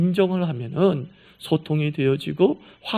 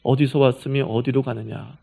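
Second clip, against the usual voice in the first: gentle plain question; 7 semitones lower than usual. Shown as a demonstration. Preacher retelling God's question to Hagar in plain words, gently. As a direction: bring the grand question down to a caring ask. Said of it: "쉽게 얘기하니까 이거더라고요".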